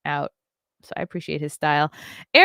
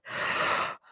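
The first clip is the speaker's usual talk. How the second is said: yawn; 5 dB quieter than usual. Real, not acted. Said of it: "I'm yawning".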